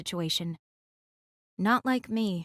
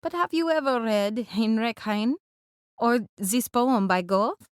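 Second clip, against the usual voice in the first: louder, hearty character voice; booming voice; 4 dB louder than usual. Acted. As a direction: let the poetry question ring out to the group. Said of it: "His voice booms".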